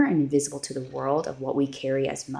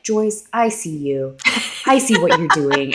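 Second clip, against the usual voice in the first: retold self-talk; 3 semitones higher, 6 dB louder than usual. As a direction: encourage yourself out loud, half-joking. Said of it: "be that self-talk person".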